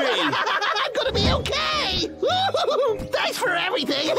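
high happy laughter; relieved laughing. Acted. Relieved it's only a cold.

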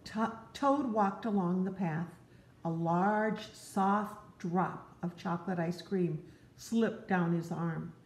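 gentle read-aloud to a little one; storybook narration. Acted. Parent reading Frog and Toad to a child, gently. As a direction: tell it like a bedtime story.

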